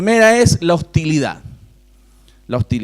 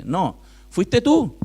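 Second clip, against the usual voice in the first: firm rebuttal; much slower than usual. Real, not acted. Preacher answers the excuse.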